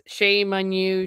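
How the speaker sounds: a hint of a stern old preacher; mild mock scolding, not drawn out; lightly voiced scolding servant. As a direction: scold with quick disapproval. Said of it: "they talk in his Yorkshire dialect".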